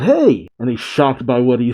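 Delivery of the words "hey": short mock yell, pitched up; understated cartoon holler; Luffy's yell. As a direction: call out in a higher voice. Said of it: "as he yells out".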